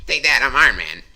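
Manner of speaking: high, loud mock-heroic taunt; mock superhero. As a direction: crow it like a comic-book hero. Mock hero line over the film.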